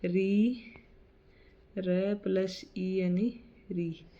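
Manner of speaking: "री" said slowly as र plus ई, ending on "री"; pronunciation demo. Shown as a demonstration. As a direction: spell out "र plus ई यानी री" slowly so "री" is heard as र plus ई. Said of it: "री का हिंदी में शुद्ध प्रयोग नहीं होने के कारण".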